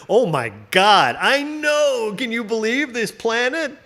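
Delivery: mock amazed tourist voice; gawking alien tourist. Alien tourist on a bus gawking at Earth. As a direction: gush like a sightseer on a tour bus. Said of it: "people are like".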